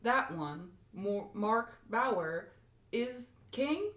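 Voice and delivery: slow, halting robot voice. Acted. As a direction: sound out each word like a machine. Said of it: "more robot voice".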